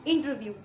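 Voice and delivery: इंटरव्यू with the weight on व्यू; light इंटर, firmer व्यू; stress on व्यू. Shown as a demonstration. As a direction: lean on the last syllable व्यू in इंटरव्यू. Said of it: "व्यू पे सारा हमारा stress आ रहा है".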